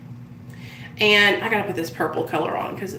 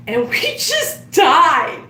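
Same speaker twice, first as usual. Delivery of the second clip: real laughter; 6 semitones higher, 4 dB louder, much slower than usual. Real, not acted.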